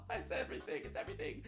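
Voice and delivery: breathless whisper; whispered awe. Real, not acted. Streamer whispering his delight at a tweet. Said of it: "unvoiced repeat".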